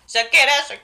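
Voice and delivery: spooky ghost voice. Retold or imitated. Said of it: "there's gonna be a spooky voice that's like".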